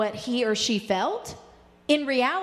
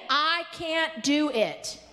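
slower repeat; slower than usual. Shown as a demonstration. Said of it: "Say it again".

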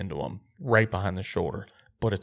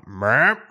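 imitated deer meep; 5 dB louder than usual. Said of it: "I am meeping loud".

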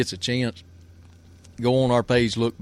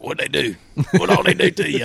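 higher-pitched imitation of a tickled friend; laughing friend; 8 semitones higher, 4 dB louder than usual. Friend asking what customs did, imitated as laughing. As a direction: play a buddy egging for the story, amused. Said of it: "he's steadily laughing".

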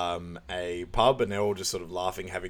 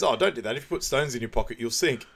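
higher, louder naive helpful voice; earnest advice impression; 3 semitones higher, 3 dB louder than usual. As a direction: give daft advice dead earnest. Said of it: "And he goes".

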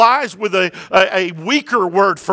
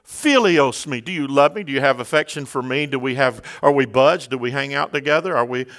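tender questioning; 5 semitones lower than usual. Acted. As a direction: coax him like an old friend. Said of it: "Jesus changes gears".

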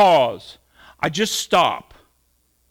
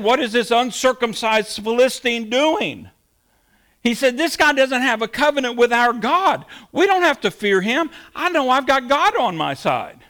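higher-pitched, lightly acted confident challenge; defiant David; 5 semitones higher than usual. Preacher voices David facing Goliath, lightly acted defiance. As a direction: retell a bold champion's words, pitched up with conviction. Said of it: "In fact, he said".

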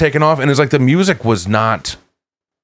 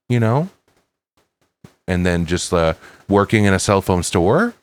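every phrase ends rising like a question; uptalk. Shown as a demonstration. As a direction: lift the end of each line upward. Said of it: "I'm just gonna keep doing that upward inflection".

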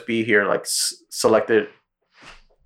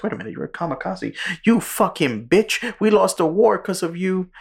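mock scolding; 9 semitones higher than usual. Neighbor berates the returning kamikaze, high mock fury.

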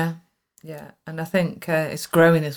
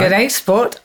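put-on Queensland accent; 4 semitones higher than usual. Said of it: "we should be saying good day".

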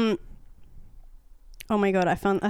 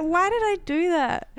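much higher, slow mock groan of regret; embarrassed self-question; 10 semitones higher than usual. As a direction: wail it at yourself, cringing. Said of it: "I was like".

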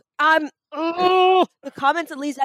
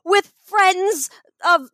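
outraged shout; 5 semitones higher, much slower than usual. Real, not acted. Outraged at Hugh Jackman.

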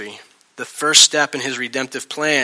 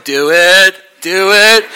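loud, raised-pitch urging; yelling; 6 semitones higher, 9 dB louder, slower than usual. Retold or imitated. Jesus demanding that John act, yelling. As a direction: yell it as a physical demand. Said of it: "They were yelling at each other".

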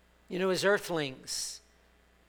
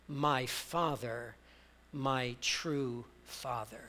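soft, slow, lower murmured prayer to the Father; intimate prayer; 5 semitones lower, 6 dB quieter, slower than usual. Acted. Pastor voicing a believer's tender prayer, soft and slow. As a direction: hush it like a private prayer, slowly. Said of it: "moving us to cry out intimately".

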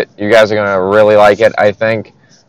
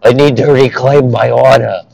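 higher-pitched bad Brooklyn accent; Prince Zuko, Brooklyn accent; 3 semitones higher than usual. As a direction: do an urgent cartoon prince in shoddy Brooklynese. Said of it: "kinda giving him a shitty Brooklyn accent".

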